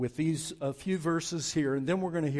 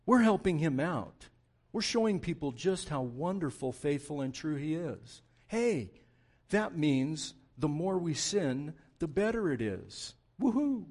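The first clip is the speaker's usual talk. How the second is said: whine; 3 semitones higher, 3 dB louder than usual. Acted. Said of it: "that's said in a whiny voice".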